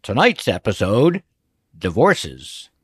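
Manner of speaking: hint of a vintage TV announcer; lightly put-on dramatic episode-title announcement; William Conrad. Podcast host imitating an old TV show opening, lightly dramatic announcer. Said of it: "with my best William Conrad voice".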